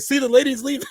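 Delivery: high, loud mock complaint; imitating the dad. Dad griping to his son as Claire leaves, high mock whine. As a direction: whine it up high like a fed-up father. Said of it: "And he's like".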